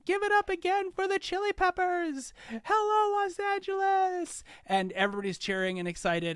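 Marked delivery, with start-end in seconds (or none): 0.1-4.4 much higher, louder rally shout; mayor hyping the crowd on stage, loud and high. Acted. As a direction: pump up the stadium like a mayor. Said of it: "and she's like".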